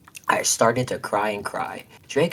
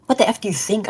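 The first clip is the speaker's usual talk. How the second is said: higher-pitched mild indignant question; angry; 10 semitones higher, faster than usual. A narrator's reading. Narrator voicing Ebony snapping back at Bloody Mary, mildly angry. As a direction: read it as a mildly angry retort. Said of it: "I asked angrily".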